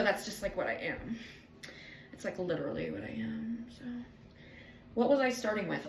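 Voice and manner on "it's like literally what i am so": whispered confession. Real, not acted. Vlogger confides to viewers in a whisper. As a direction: breathe it like a secret.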